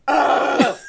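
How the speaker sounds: drawn-out "ugh" of disgust; retold groan of dismay. Disgusted reaction to next chapter.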